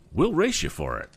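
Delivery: high sneering rival voice; villain's taunt. A narrator's reading. Chapter title quote, villain voice.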